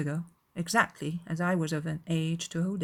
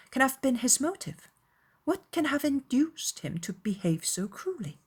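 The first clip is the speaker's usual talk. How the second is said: put-on higher-pitched young lady's questioning; perplexed and indignant, pitched up; puzzled, troubled Elizabeth; 8 semitones higher than usual. A narrator's reading. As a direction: ask in earnest bewilderment. Reader voices Elizabeth questioning Wickham.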